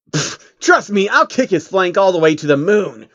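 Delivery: a touch of bravado; boasting. Acted. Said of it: "Rainbow Dash boasted".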